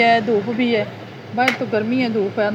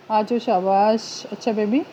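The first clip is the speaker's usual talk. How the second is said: soft praise; 2 semitones lower, 5 dB quieter than usual. Real, not acted. Praising the toddler softly.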